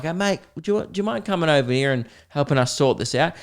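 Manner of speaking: imitating a falsely polite threat, sung high; sweet on the surface, menace beneath; mock polite threat. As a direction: bloke calling a passer-by over, mock polite.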